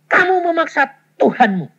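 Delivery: loud, high thunderous rebuke; thunderous divine rebuke; booming voice of God. Retold or imitated. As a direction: boom it out like thunder. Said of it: "Suaranya kayak guntur".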